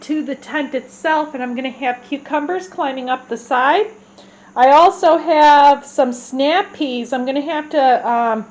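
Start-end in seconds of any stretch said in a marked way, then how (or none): 4.5-8.4 congested voice, blocked nose; stuffy nose. Real, not acted. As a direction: talk through a stuffy nose. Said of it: "I'm so congested".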